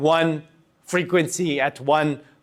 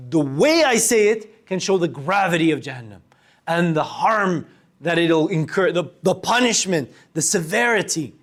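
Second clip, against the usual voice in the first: grave tone. Shown as a demonstration. Teacher showing students a grave tone for Jahannam. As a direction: let the weight of it sink in. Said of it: "You see how I changed my tone too?".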